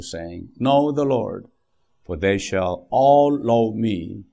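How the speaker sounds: very slow, measured Bible reading with long pauses; preacher slowly reading Jeremiah to the congregation, solemn; solemn scripture reading. Acted. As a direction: read each phrase of the verse slowly and solemnly. Reads scripture aloud very slowly.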